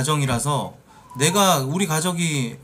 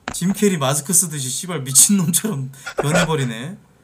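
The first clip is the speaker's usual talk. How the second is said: ordinary talk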